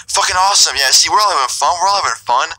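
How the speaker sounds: high, sing-song mock cheer; suddenly gleeful. Threatening host suddenly smiling at trapped guests, high mock glee. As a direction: imitate an unhinged host's sudden delight, pitch jumping up. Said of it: "he just started smiling and laughing".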